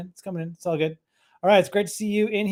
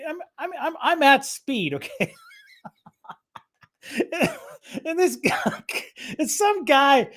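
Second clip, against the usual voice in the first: laughing; 6 semitones higher than usual. Real, not acted. Telling friends his speed through giggles, laughing. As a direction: laugh while admitting your speed.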